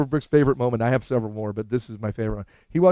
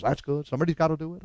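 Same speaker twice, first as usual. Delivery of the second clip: softer, resigned approval; understated comic impression; Albert Brooks; 6 dB quieter than usual. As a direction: concede it quietly in his voice. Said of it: "I actually do an impression of him".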